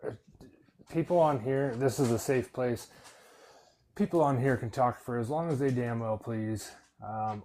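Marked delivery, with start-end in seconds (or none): 0.9-6.7 louder, emphatic reassurance to the whole room; firm loud insistence. Real, not acted. Host tells the listeners this is a safe place, loud and firm. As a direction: raise the voice and insist the space is safe. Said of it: "host insisting chat is safe".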